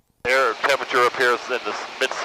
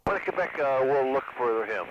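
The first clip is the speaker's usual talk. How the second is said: pilot radio call, quieter; over the radio; 7 dB quieter than usual. Real, not acted. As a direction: speak into the aircraft radio.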